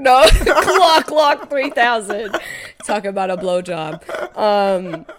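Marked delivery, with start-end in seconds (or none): 0.0-2.3 hammed-up excitement. Mock gun name, drawn out.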